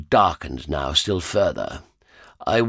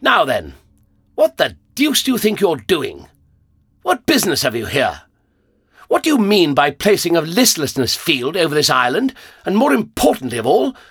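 lofty movie-star oration, building louder; grand speechifying; 10 semitones higher, 5 dB louder than usual. A narrator's reading. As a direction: declaim like a movie star to extras. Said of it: "in the manner of a movie star speechifying to extras".

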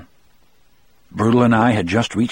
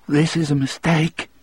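high, small, frightened hiss; tiny high-pitched fearful voice; hissy little voice; 7 semitones higher than usual. A narrator's reading. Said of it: "said in a hissy little voice".

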